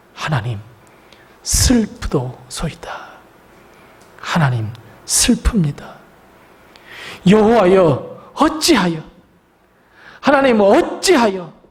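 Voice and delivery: a grieving plea to God, building from near-whisper to a cry; Joshua's anguished cry. Acted. Joshua crying out to God in despair, a building wail. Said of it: "하나님께 이렇게 절규합니다".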